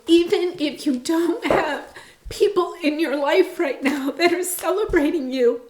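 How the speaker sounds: choked up, pushing through the tears; getting emotional. Real, not acted. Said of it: "I'm getting so emotional".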